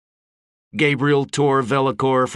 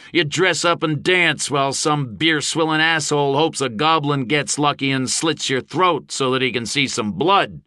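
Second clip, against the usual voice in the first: raised, higher orator's voice; scornful harangue; 5 semitones higher than usual. A narrator's reading. Gabe to mercenaries on their tours, scornful harangue. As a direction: harangue the crowd.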